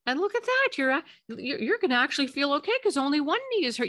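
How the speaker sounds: mock upbeat, missing the point; dismissive silver lining. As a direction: brightly brush off a crying child's cut knee. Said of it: "You would not be saying to them".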